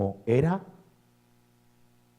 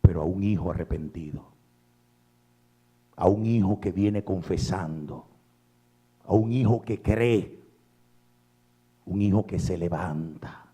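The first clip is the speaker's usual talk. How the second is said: tender appeal; 5 semitones lower than usual. Acted. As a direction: draw them in gently. Soft appeal to listeners.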